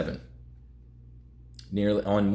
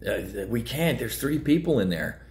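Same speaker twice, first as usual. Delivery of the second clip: mock panicked sailor; 5 semitones higher, slower than usual. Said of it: "the emotional guy on the other side".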